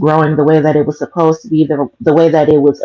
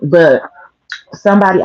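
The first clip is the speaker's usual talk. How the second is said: crunching broccoli. Real, not acted. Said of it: "I'm sorry if I'm crunching on this broccoli loud".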